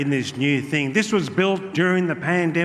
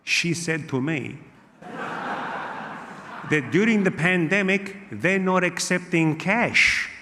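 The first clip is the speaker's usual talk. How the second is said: put-on Italian uncle accent; slower than usual. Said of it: "phone call from my uncle Gino".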